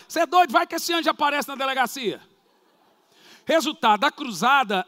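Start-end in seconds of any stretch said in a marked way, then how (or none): 0.1-2.2 incredulous. Acted. Incredulous reaction in the retold scene.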